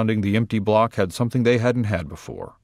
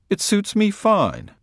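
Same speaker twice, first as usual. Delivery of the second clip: mild put-on thought voice; 10 semitones higher, slower than usual. Narrator's inner thought voiced.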